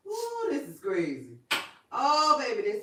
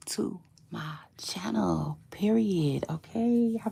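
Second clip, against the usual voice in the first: whisper. Acted. Whispered aside in intro.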